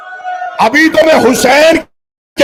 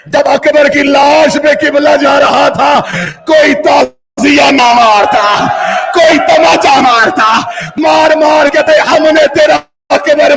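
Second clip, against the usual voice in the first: impassioned majlis recitation, rising to shouts; mournful preacher's wail; preaching at full force. Acted. Resumes preaching after appeal.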